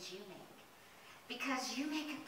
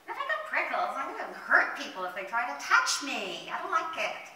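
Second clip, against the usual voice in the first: higher, whiny pretend upset; mock crying; 4 semitones higher, 7 dB louder than usual. Prickly rose explains the tears to the fairy, mock crying. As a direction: complain like a tearful storybook character. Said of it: "Why are you crying?".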